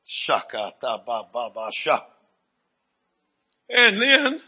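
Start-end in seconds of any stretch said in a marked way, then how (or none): 0.1-2.0 low, chanted nonsense syllables; speaking in tongues. Real, not acted. Preacher breaking into tongues mid-sermon, low chant. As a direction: pray in tongues, low and rhythmic.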